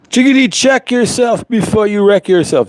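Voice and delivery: high, sing-song mic check line; tossing off a silly voice to test the mic; playful mic test voice. Pretend. Testing the mic with a sing-song voice.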